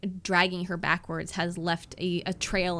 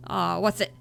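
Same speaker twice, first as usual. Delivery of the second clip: stranger coaxing his dog; 7 dB louder, faster than usual. Acted. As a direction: talk to the dog like an owner puzzled by its barking. GM voices figure talking to dog.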